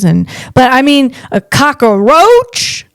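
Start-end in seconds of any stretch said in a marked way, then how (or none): 1.3-2.9 disgusted. Real, not acted. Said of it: "drawn out disgust".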